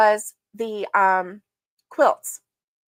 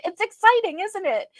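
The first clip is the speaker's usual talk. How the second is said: put-on excited with a child; 10 semitones higher than usual. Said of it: "I said".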